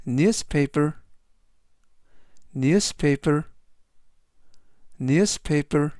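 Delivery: "newspaper" said slowly, each syllable clear, falling at the end; clear English demo. Shown as a demonstration. Teacher models "newspaper" three times for the class. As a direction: model "newspaper" for learners to copy. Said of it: "이라고 발음하시면 되겠고요".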